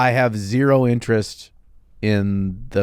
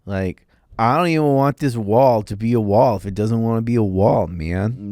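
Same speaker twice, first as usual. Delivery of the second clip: laid-back hippie voice. Retold or imitated. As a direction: play a chilled-out free spirit. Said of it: "That's not how Trent talks".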